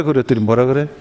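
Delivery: normal talking voice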